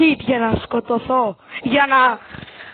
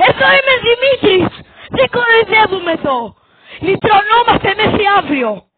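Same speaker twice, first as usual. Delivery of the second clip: mock preaching; 4 semitones higher than usual. Mock sermon continues.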